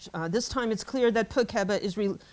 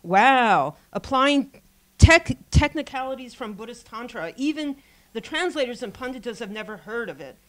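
sarcastic. Retold or imitated. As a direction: lay the sarcasm on. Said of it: "he says sarcastically".

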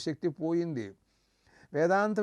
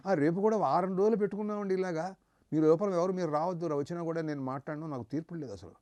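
quick, brushed-off excuse of a busy man; busy householder; faster than usual. Retold or imitated. The preacher mimics a worldly man refusing to hear teaching, hurried and dismissive. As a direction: rattle off the excuses fast and dismissively.

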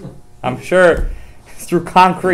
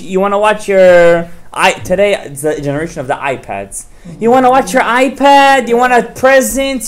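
higher, sing-song pampering parent voice; indulgent coaxing parent; 4 semitones higher than usual. Retold or imitated. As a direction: sweet-talk a spoiled kid with treats. Coaxing parent spoiling a child.

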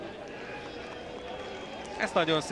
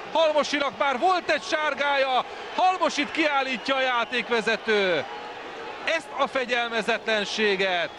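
excited commentary; 6 semitones higher than usual. Real, not acted. Red card, commentator indignant.

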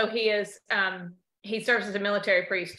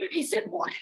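mimicking the ladies' shock; 8 semitones higher, 3 dB quieter than usual. Mom's friends' shocked reaction.

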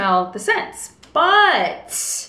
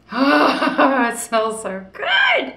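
high, gushing delight over the scent; delighted sigh; 4 semitones higher, much slower than usual. Real, not acted. Sniffing her candle at home, gushing delight. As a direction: swoon over the smell, voice breaking with joy.

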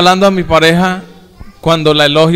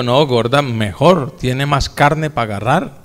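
playful reassurance; 4 semitones lower, 4 dB quieter than usual. Retold or imitated. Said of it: "Le digo".

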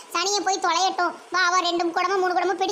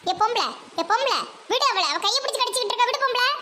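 higher, fast urgent pleading; hurry, pull her off; frantic higher plea to let go; urgent higher yelling; 4 semitones higher, faster than usual. Acted. Pulling attacker off her friend.

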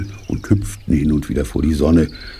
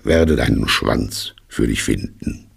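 solemn. A narrator's reading. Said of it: "sagte er feierlich".

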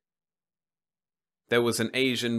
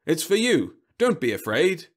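salesman robot; 8 semitones higher, 8 dB louder than usual. Acted. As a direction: greet him like a tireless vending robot. Robot coaxes child.

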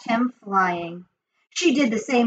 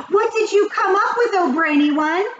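high, loud, eager question; shrieky, high-pitched begging; witches calling out; 11 semitones higher, 5 dB louder than usual. A narrator's reading. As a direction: call out like an excited witch crowd. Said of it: "they called out".

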